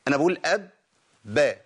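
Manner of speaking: أب با with the lips kept closed from ب into با; held ب demo. Shown as a demonstration. The sheikh shows students how a doubled ب stays put. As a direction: glide أب into با without a bounce. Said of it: "لأن أنا ما بسيبش المخرج".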